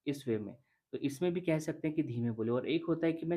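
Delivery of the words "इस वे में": words rushed out very fast and a bit higher; rapid demo. Shown as a demonstration. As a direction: show how rushed talk sounds, racing through. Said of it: "जल्दी-जल्दी चीज़ें बोल रहा हूँ इस वे में". (तेज़ी से, जल्दी-जल्दी बोलना)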